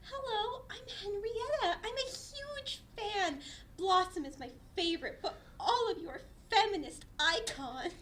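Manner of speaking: tearful fan. Acted. Fan girl gushing, crying-laughing.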